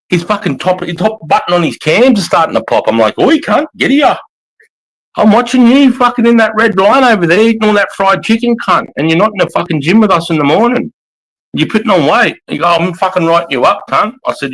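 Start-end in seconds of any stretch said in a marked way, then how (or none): 3.2-12.4 high, loud furious dressing-down; angry yelling. Retold or imitated. Sergeant yelling at fat soldier. 12.7-14.1 angry threat. Retold or imitated. Sergeant threatening the soldier.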